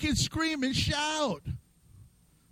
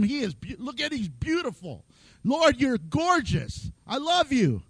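softer, tender worship voice; awed adoration; 3 dB quieter than usual. Retold or imitated. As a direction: whisper your love to God in awe. Adoring God in worship.

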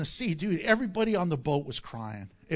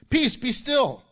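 raised, higher-pitched command; yelled rebuke; 5 semitones higher, 4 dB louder than usual. Retold or imitated. Preacher quoting Jesus to the wind, raised rebuking voice. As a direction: rebuke it with a mild yell. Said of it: "He yells that".

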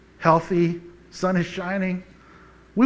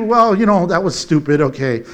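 deflating, pitch sinking away; backing down; 2 semitones lower than usual. Acted. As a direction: take it back sheepishly. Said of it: "all of a sudden it went from".

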